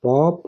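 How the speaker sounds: पॉप said on its own as a word part; isolated first chunk. Shown as a demonstration. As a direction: set पॉप apart as a pronunciation model. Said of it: "ऐसे पढ़ते हैं".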